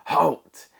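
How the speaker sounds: a sudden high, loud bellow of halt. A narrator's reading. Rat bellowing at the ants, high and loud. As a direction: stop them dead with one big yell. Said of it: "bellowed a deafening".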